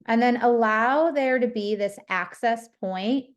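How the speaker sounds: unhurried meditation guidance with long pauses between phrases; guided meditation. Real, not acted. Teacher guiding listeners to notice their breath and body, guided meditation. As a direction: lead them gently through it, leaving space after each phrase.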